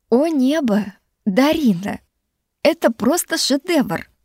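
mumbling through a mouthful of cake; mouth full. A narrator's reading. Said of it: "прошамкала я с набитым ртом".

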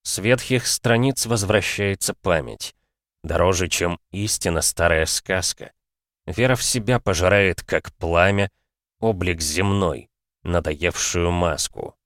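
медленно, напевно, как стихи; прочесть эпиграф неторопливо; чтение стихов. A narrator's reading. (медленное чтение стихов)

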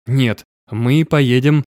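"Нет, мы поедем" drawn out slowly, then held before the key words; slow, deliberate "поедем", left hanging; emphatic lead-in. A narrator's reading. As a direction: stretch "мы поедем" deliberately, rising towards a pause. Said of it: "сделал акцент на следующем".

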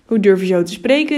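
angry, forceful narrated shout. A narrator's reading. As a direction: rebuke loudly, as an offended mayor. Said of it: "riep de burgemeester weer boos".

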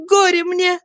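put-on high, slow girl's lament, wringing hands; despairing cry. Girl cries out in despair over her lover's shame, anguished. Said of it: "ломая руки в порыве отчаяния".

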